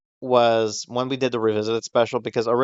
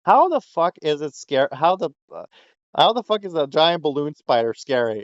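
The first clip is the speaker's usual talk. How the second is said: retold disbelief, pitched up; incredulous; 5 semitones higher than usual. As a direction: replay a baffled, exasperated objection. Retelling incredulous reply to comment.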